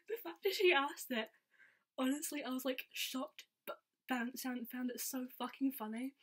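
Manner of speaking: can barely get the words out for laughing. Real, not acted. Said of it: "this makes me laugh so much".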